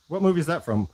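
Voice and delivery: high, faux-curious ask; mock innocent question. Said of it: "whenever I ask them that".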